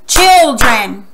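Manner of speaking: put-on "Children" in two loud, separate beats; syllable by syllable. Shown as a demonstration. Teacher clapping along with pupils, "Children" split into two beats. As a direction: punch both syllables of "Children". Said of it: "Clap with me".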